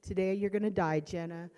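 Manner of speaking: mock yell of a knife threat; loud menacing threat; retold threat. Son threatening his sister, retold as a loud threat. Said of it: "and he's saying".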